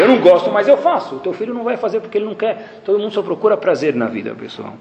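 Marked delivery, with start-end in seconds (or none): 0.0-1.2 grudging duty. Retold or imitated. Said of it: "Você está mostrando por quê pro teu filho".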